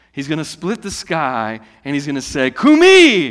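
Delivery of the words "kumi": high, loud call to wake the dead; a ringing shout of command. Acted. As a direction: bellow it like a command from the sky. Jesus voiced calling the dead.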